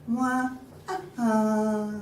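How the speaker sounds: mock baby wail, high; thin, stylized infant cry; baby's cry. A narrator's reading. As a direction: imitate a baby crying in short wahs. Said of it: "started crying".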